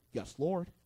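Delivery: soft, meek yes; meek reply. Retold or imitated. Owen answering God in the story, quiet and meek. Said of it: "And Owen's like".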